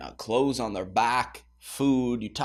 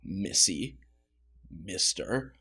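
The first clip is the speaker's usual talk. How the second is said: stern parent; 7 dB louder, slower than usual. Pretend. Parent halting a blaming teenager with a loud stern rebuke. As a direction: stop the kid right there, sharply. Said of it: "No, you're gonna say".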